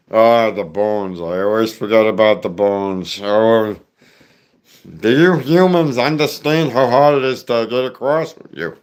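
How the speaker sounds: cartoon creature with a Jewish accent; Zoidberg. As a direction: lament from the back of the throat. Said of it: "and you got Zoidberg".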